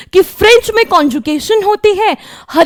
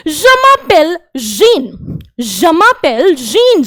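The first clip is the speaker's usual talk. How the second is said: slow model phrase; much slower than usual. Shown as a demonstration. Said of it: "ये person कह रहा है".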